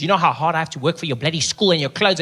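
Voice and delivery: lightly mocked scolding parent, rushed; nagging parent. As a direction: rattle it off like a fed-up parent. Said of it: "parents say that to their kids".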